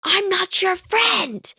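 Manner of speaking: high, slow, drawn-out snub; haughty mock snub, way up high; standoffish kid. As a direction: stretch out the cold brush-off. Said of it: "like, the ... type of person".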